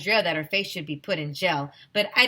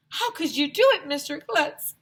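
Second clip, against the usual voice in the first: much higher, louder accusing shout; shouting parent; 9 semitones higher, 4 dB louder than usual. A narrator's reading. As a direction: yell it at him in disbelief.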